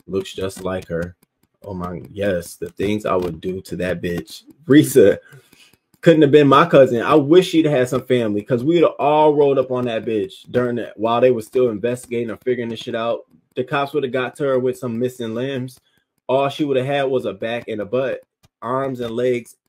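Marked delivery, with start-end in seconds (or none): 4.6-14.8 loud, higher, furious vow. Real, not acted. Telling Risa what her family would do to the babysitter, loud furious. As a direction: roar out the revenge fantasy.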